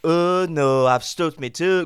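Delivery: light Scouse repeat of the toe line; Scouse accent. Acted. Cohost copying the Scouse toe line, light accent. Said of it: "That was good".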